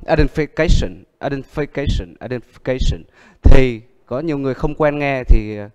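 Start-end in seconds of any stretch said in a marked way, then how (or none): 0.1-3.0 "identification" said fast with syllables swallowed; swallowed sounds. Shown as a demonstration. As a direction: clip "identification" the way it's swallowed in fast speech. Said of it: "nuốt âm". (nuốt âm khi đọc "identification")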